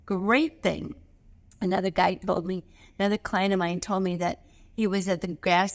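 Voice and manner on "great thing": cheerful thank you. Shown as a demonstration. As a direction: thank the universe with real delight.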